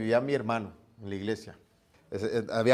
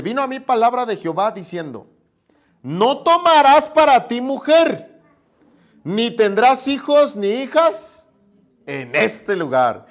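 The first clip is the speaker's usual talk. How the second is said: voz de Dios; 8 semitones higher, 8 dB louder than usual. Acted. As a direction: proclaim it like God commanding. Voz de Dios leyendo la Biblia. (voz de Dios solemne, lenta y fuerte)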